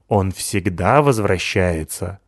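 slow, gloomy little voice; gloomy hedgehog. Acted. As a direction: drag it out with dread. (мрачный медленный голос ежа)

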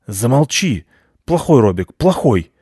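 sharp telling-off of a dog; cross master's rebuke; scolding owner. Acted. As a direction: scold the dog in short bursts. Drunk owner scolding his dog.

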